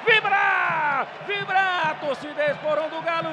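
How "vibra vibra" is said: celebratory shout. Real, not acted. Narrador celebra o gol.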